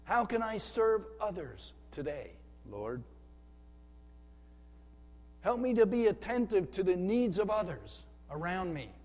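lifted, sincere prayer to the Lord; humble churchgoer praying before service; earnest prayer. Retold or imitated. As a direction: pray it out with an open heart. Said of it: "and we say".

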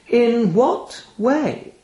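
slow, drawn-out raven question. Acted. Raven asks the narrator, slow and knowing. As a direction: feign innocence, slowly.

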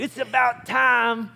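loud, high redneck twang; hammed-up redneck holler, drawn out slowly. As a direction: put on a redneck accent and crow it. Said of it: "there I go with my redneck voice again".

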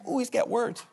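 soft, sniffy gasp of the listeners; mock congregation. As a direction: mimic the shocked crowd quietly. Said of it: "Y'all like".

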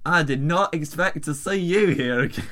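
put-on botched South African accent; terrible South African accent. Reading the email as instructed, terrible South African accent. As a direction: try South African and miss. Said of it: "This is terrible South African accent".

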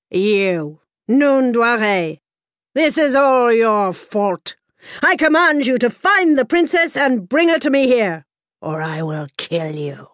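king threatening the groom, commanding. A narrator's reading. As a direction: order him like a lovesick tyrant.

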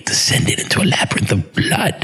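lightly attempted dramatic British actor; Tony Hopkins. Hopkins praising the show in his letter, lightly attempted impression. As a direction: read it as a grand thespian, half-managed. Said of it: "I can't do a, a Tony Hopkins".

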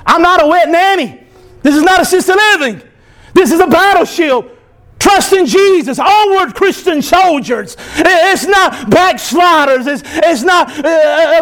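emphatic, high-pitched pulpit declarations; forceful preaching. Real, not acted. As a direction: drive each denial home like a preacher.

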